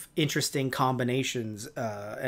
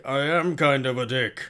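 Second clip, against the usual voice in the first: Mondo; 2 semitones lower than usual. Retold or imitated. Mondo admitting his nature to Grumble, put-on voice. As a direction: own up in a put-on character voice. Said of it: "Mondo's like".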